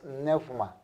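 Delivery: neuma said nefma, with an f; ípsilon as f. Shown as a demonstration. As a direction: pronounce neuma as nef-ma. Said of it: "adquiere un sonido F". (neuma dicho "nefma", con f)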